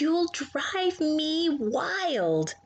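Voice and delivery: slow breathy whisper of the title; whispered, drawn-out title. Acted. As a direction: hush it out slowly like a secret.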